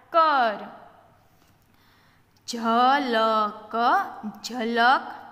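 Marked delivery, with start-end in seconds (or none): 2.5-3.8 slow, letter-by-letter reading; sounded out. Shown as a demonstration. Teacher showing beginners the letters, sounded out. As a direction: stretch ઝલક out as jha-la-ka.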